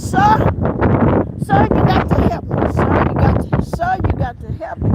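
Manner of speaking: hammed-up desperate caller; mock frantic plea. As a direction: imitate a panicked caller begging for help.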